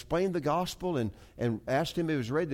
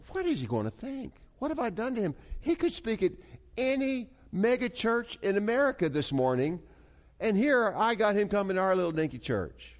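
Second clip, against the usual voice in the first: higher-pitched anxious inner voice; retold nervous worry; 8 semitones higher than usual. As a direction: replay fretting thoughts, pitched up. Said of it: "I began to get nervous".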